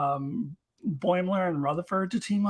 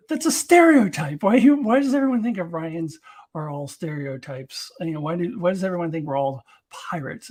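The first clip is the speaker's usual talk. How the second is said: indignant Tendi; 4 dB louder than usual. Retold or imitated. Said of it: "and she's like".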